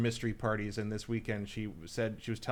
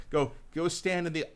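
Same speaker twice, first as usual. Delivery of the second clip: put-on a mild American accent, a touch louder; 4 semitones higher, 4 dB louder than usual. English friend directing party guests, in a mild American accent. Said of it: "she had to do her American".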